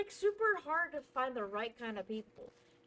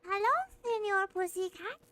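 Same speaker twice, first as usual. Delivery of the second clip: higher, squeaky cartoon mouse with a Spanish lilt; Tom and Jerry mouse; 8 semitones higher than usual. Shown as a demonstration. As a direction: play the cheeky cartoon mouse. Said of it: "I can sound like one of those cute little mouses from Tom and Jerry".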